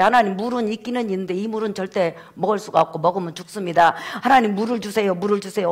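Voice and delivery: low, subdued acted prayer; pleading prayer. Moses praying to God for drinkable water, pleading. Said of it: "하나님 앞에 기도했어요".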